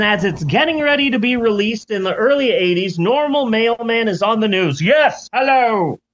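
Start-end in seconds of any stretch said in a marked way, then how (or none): 4.8-6.0 high, grand mock British accent; hammed-up British accent. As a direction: announce yourself like a pompous Brit. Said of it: "Now he's British".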